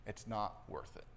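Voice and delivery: soft, low self-talk, letting it go; calmed down. Acted. Driver talking himself down from road rage, calm and soft. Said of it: "help to calm us down. And we slow down and say".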